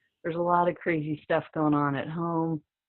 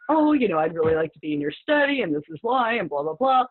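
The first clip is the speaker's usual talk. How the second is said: higher, lightly gushing quote of a letter; eager pleading; 6 semitones higher, 4 dB louder than usual. Retold or imitated. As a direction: retell an eager plea, starting high and easing down. Quoting her own eager application letter.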